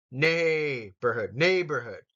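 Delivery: Neighborhood with the stress on neigh; teacher's model, neigh stressed; stress on first syllable. Shown as a demonstration. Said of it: "The first syllable is gonna get the emphasis".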